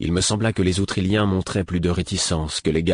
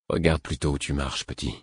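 low, soft and unbothered; calm; 5 semitones lower, 5 dB quieter than usual. Acted. Veteran calmly dismissing a young guard, low and soft. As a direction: brush off the youngster quietly. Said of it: "d'un ton calme".

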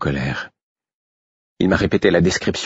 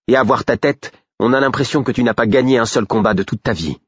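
put-on scornful girl; 5 semitones higher than usual. A narrator's reading. Girl scornfully mocks the skinny shepherd who smells of sheep. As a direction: pile on the insults, mocking him.

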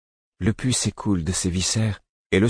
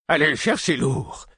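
higher urgent call across the room; cry out; 8 semitones higher than usual. Acted. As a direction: shout for help, urgently. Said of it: "cria quelqu'un". (cri pressant, plus aigu)

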